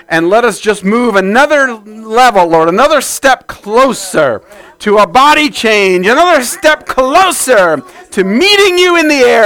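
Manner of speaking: praying aloud to the Lord, rising and falling; earnest spoken prayer, swelling then settling; fervent prayer. Acted. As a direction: pour it out as a congregational prayer. Pastor prays aloud before sermon.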